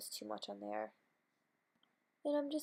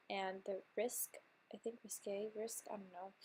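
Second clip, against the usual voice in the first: unsure whisper; 2 semitones lower, 6 dB quieter than usual. Real, not acted. Unsure of lash names.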